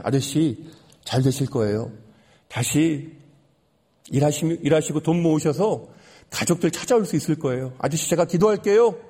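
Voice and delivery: understated, reassuring retold words; gentle encouragement. Narrator encourages the man on the train, gently reassuring. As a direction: encourage him gently, in unhurried phrases. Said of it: "격려해드립니다".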